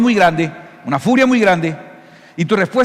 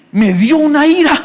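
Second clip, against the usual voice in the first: higher, louder burst of mock rage; mock anger; 9 semitones higher, 6 dB louder than usual. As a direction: blurt it out like you're fuming. Imita a alguien furioso. (ira fingida, más aguda y fuerte)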